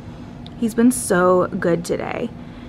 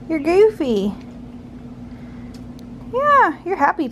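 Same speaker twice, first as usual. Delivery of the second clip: higher and lighter, teasing; 7 semitones higher than usual. Real, not acted. Mom teasing her baby in higher playful baby talk. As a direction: sing it up to him playfully.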